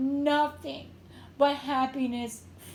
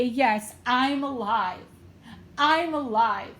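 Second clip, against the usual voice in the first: louder, emphatic declaration of being alive; emphatic affirmation; 2 semitones lower, 4 dB louder, slower than usual. Acted. Medium urging a griever to say yes to life, emphatic affirmation. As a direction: declare it loudly, with conviction. Voicing a joyful affirmation for listener.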